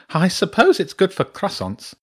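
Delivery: high-pitched, grudging badger; scornful. A narrator's reading. Badger sneering at a holiday in France, scornful. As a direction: concede it with lofty disdain. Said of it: "the badger snorted".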